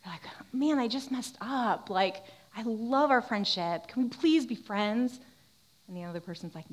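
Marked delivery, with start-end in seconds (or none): 0.5-5.2 slow, drawn-out appeal; acted pleading. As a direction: play someone begging to stay friends. Acting out begging a friend.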